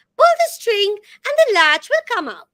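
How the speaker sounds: squeaky, high-pitched wolf character voice. Reading Little Red Riding Hood aloud, the wolf answers at the door, squeaky wolf voice. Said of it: "said the wolf in a squeaking voice".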